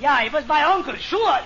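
ordinary delivery

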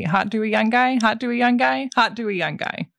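quick poll of the table, then settling it; lightly acted repeated offer, dropping to confirm; Blues Brothers. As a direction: imitate taking orders, two lifted questions and a falling last one. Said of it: "That was a Blues Brothers reference".

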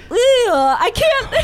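slow drawn-out camel groan; grumbling camel voice. Shown as a demonstration. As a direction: stretch it out like a braying camel. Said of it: "can you make the sound?".

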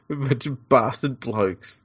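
very slow, dragged-out trailer voice; slow mock promo voiceover. Host capping the joke with a slow mock promo voice. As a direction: drag it out like a cheesy promo tag line. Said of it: "voiceovers for the pregame things".

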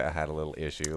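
low, soft mock-casual understatement; minimizing. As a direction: quote it small, playing it right down. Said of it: "I love how you minimalize it".

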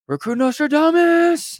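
high mock drill-instructor yell; calling out. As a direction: shout the nickname across the yard.

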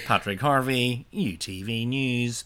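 mock reporter signing off, slowing down; newsreader sign-off. Closing the joke news report, mock newsreader voice. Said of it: "that's what newsreaders would say".

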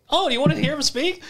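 high, teasing imitated offer; mock taunting. Captor offering to ungag his hostage for the captain, mock taunt. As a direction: dangle it tauntingly, pitch lifted.

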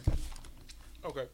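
talking while licking fingers; sticky fingers in mouth. Real, not acted. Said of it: "licking my fingers in your ear".

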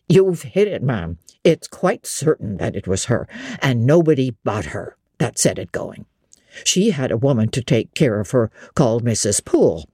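a lightly voiced old host confiding gossip; innkeeper. Innkeeper voice read by narrator.

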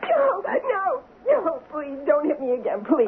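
wife begs her husband not to hit her again; frightened pleading. Acted. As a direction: plead for him to stop.

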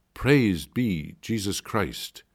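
slow, bold and deliberate; bold greeting. Acted. Nun facing men blocking her path, slow bold greeting. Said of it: "I said boldly and loudly".

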